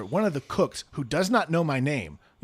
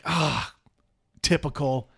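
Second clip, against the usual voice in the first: annoyed resignation; 4 dB louder than usual. Retold or imitated. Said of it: "So I'm like".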